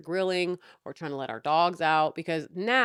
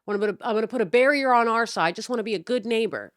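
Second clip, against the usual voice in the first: higher, quick, lightly mimicked eager neighbor; 5 semitones higher, 5 dB louder, faster than usual. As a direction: play the overly agreeable neighbor, a touch higher. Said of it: "He's like".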